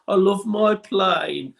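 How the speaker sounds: Pilot Pete. Acted. Actor voices his Brummie animation character, slow Birmingham accent. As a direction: laconic Brummie cartoon pilot, stretching the words. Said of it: "Pilot Pete was from Birmingham".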